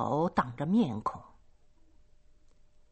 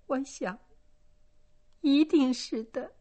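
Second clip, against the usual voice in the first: halting; 8 semitones higher than usual. A narrator's reading. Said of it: "吞吞吐吐地说".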